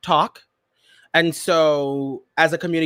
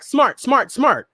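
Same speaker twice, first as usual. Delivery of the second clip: "smart" repeated crisp and hit; drilling a word; 6 semitones higher, slower than usual. Retold or imitated. Singer practising a word in the studio, crisp. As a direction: rehearse "smart" like a vocal take. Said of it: "she's in the studio like".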